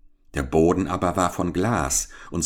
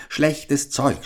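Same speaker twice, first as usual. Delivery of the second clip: put-on higher, scornful old crone grumble; grumbling witch; 8 semitones higher than usual. A narrator's reading. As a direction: spit out the complaint like a picky old hag. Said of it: "murmelte sie". (verächtliche alte Hexe, höher)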